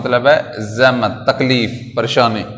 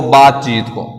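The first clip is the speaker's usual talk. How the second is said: ordinary delivery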